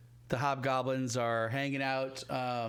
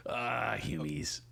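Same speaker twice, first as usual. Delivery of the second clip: sneering hobgoblin; 2 semitones lower, much slower than usual. Acted. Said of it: "stupid humies".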